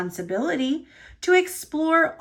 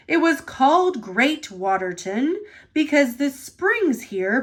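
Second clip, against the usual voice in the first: a lightly lowered, stately boss voice; Sir Topham Hatt; 2 semitones lower than usual. Acted. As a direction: speak like the kindly railway chief.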